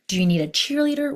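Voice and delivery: pep it up like a cheerleader; perky cheerleader question. Acted.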